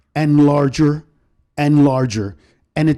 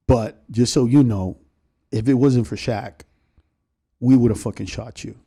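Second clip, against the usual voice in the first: Dre; 5 semitones lower than usual. Retold or imitated. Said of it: "And Dre goes".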